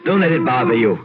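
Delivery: chuckling reassurance; laughing it off. Acted. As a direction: laugh the butler's fright away. Laughs off a night bird.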